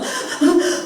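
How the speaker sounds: mimicked gasping sobs; short, breathy mock sobs; imitated child's sobbing. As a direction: imitate a child crying himself to sleep. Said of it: "우리 아이가 울면서".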